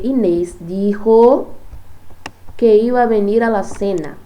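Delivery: very slow, loud "Inês dijo"; a teacher modelling the Spanish sentence; slow emphatic dijo. Shown as a demonstration. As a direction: drag out dijo to show the verb. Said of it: "Percebam, ó, "dijo eso".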